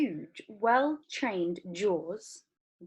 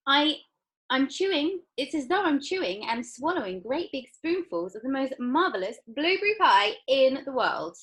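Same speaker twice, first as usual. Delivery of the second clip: put-on excited girl; 6 semitones higher, 4 dB louder than usual. Violet describing taste.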